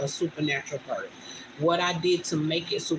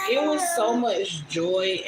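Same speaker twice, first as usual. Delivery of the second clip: tearful; 2 semitones higher, slower than usual. Real, not acted. Emotional recounting of birth.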